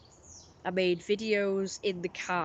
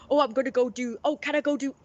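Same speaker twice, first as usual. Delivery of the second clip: higher, louder mock dithering; put-on hesitant announcing, pitched up; imitated unsure dithering; 5 semitones higher, 5 dB louder, faster than usual. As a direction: imitate someone hovering for permission. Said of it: "it's like an unsure thing".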